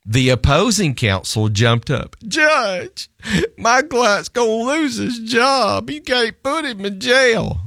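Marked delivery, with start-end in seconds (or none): 2.3-7.6 high, strained plea to the judge; pleading lawyer. Retold or imitated. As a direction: beg the judge like a panicked lawyer.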